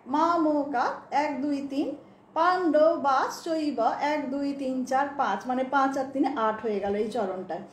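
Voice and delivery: slow, deliberate syllable count; counting syllables slowly. Shown as a demonstration. Teacher counting syllables slowly for the class. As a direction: tick off each syllable one by one. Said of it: "আমরা দেখি".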